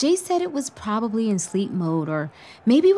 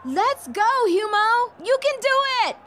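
high, excited cheer; cheering from the stands; 12 semitones higher, slower than usual. Acted. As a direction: shout encouragement to the field.

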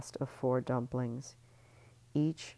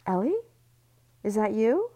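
higher, louder call; calling through door; 8 semitones higher, 8 dB louder than usual. Acted. Voice at the bathroom door calling for Ellie. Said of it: "a voice called through the door".

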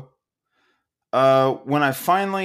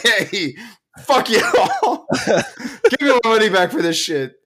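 angry; 4 semitones higher than usual. Real, not acted. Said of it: "that was my rant".

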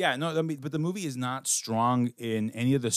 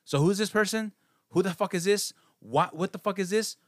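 mock confusion; 7 semitones higher than usual. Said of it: "you're like".

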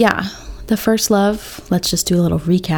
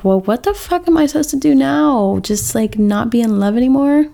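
exasperated future self; 5 semitones higher than usual. Retold or imitated. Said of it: "be like little me here".

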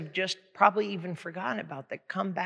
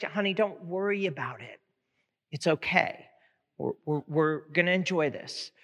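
reassuring groom; 3 semitones lower than usual. Acted. Groom reassures his embarrassed bride.

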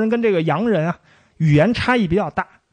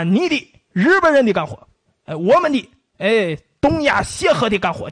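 mock pidgin Japanese; 4 semitones higher than usual. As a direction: bark it like a caricatured occupier. Acting out 协和语 phrases.

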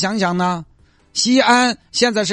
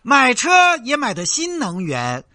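slow sing-song loudspeaker hawker chant; mocking recorded pitch for a fake beggar; street vendor recording; slower than usual. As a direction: drone it out like a looped market loudspeaker ad. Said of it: "录一个那种卖吼吼那种音频".

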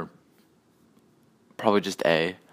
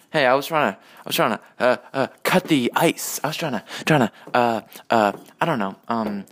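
lightly voiced halting comic, slightly raised; Norm; 3 semitones higher than usual. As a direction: stumble and stammer through it, repeating yourself. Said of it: "Norm impression".

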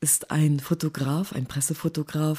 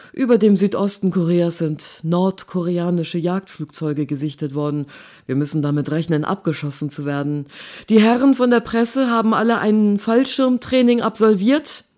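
soldier's announcement; 3 semitones higher, 6 dB louder than usual. Acted. Soldier announces threat to press.

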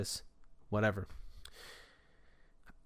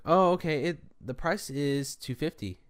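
slightly raised, obliging clerk voice; nice guy voice; 3 semitones higher than usual. Retold or imitated. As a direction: play the accommodating nice guy. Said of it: "put my nice, nice guy voice on".

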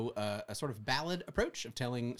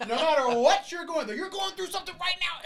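high, slow, hammed-up preacher voice; a fortune teller in the pulpit, much higher and louder; mystical horoscope reading; 9 dB louder than usual. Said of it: "preachers that are preaching".

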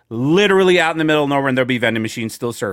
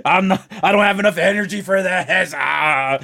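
higher-pitched mock moaning of exhaustion; worn-out performer; 4 semitones higher than usual. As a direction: groan it out like an overworked man, hammed up. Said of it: "he'd basically be like".

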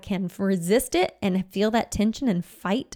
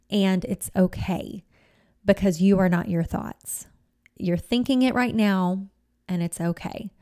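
gentle compassion. Shown as a demonstration. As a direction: speak to yourself as to a struggling child. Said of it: "meet yourself with, with the gentleness".

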